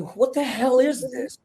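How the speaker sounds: high, slow, drawn-out disbelief; incredulous reaction. Retold or imitated. Voicing a viewer watching the manic film, incredulous. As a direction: imitate a baffled viewer, pitched well up. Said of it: "And it's not like".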